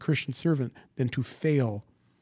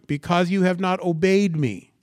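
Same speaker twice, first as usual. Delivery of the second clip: higher, insistent reprimand; God's rebuke; 5 semitones higher than usual. Acted. God replying to a complaining believer, raised firm rebuke. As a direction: answer the protest with a firm, raised verdict. Voicing God's repeated answer.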